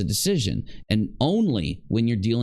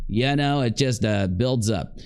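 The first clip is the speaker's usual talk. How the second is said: sick voice. Real, not acted. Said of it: "I have a lung infection now".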